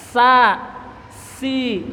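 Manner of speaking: SA, SI with a thin s, tongue tip flat; flattened small sin. Shown as a demonstration. Teacher showing the small sin, flattened s. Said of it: "Sin kecil ujung lidah ratakan".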